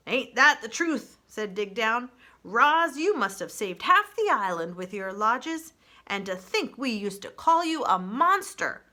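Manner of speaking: put-on crusty old groundhog; old groundhog speech. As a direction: preach by the fire like an old-timer. Dig Down character voice.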